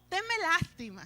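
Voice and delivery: imitated pitiful whine; self-pitying plea. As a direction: plead for pity, exaggerated. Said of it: "Entonces es una las".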